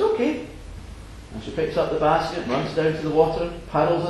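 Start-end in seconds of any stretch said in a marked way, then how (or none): 0.0-0.5 put-on high little-girl voice; wee girl. Little girl answering the fisherman, high and bright. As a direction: chirp it like a small eager girl. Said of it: "And she says".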